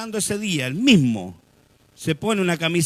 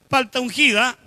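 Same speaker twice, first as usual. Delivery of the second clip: raised, loud hawker's call; street vendor's shout; 6 semitones higher, 6 dB louder than usual. Acted. Preacher playfully hawking anointed avocados, loud vendor's cry. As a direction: call out your special avocados. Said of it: "gritando mis, mis paltas y mis quesos".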